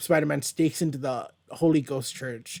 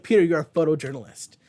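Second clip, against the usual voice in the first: scolding Peter. Retold or imitated. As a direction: tell him off, half laughing. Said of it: "that's just me being a dumbass".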